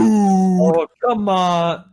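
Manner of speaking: high, loud mock complaint; exasperated protest. Player joining the protest, high loud exasperation.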